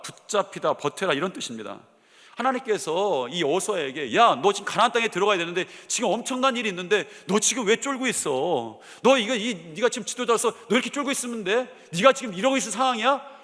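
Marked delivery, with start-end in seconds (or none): 4.2-13.3 scolding rebuke. Retold or imitated. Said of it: "이렇게 말씀하신 것이 아니라는 거예요".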